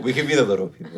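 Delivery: laughing. Real, not acted. Laughing joke.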